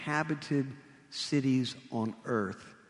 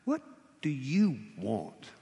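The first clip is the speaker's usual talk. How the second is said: slow probing question. Shown as a demonstration. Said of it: "Think about it".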